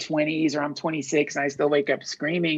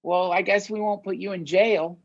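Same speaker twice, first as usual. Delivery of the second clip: higher, lightly voiced pushover judge; mock gullible official; 3 semitones higher than usual. The justice system mockingly forgives a killer, lightly voiced. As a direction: play a naive system letting a killer go. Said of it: "our justice system like".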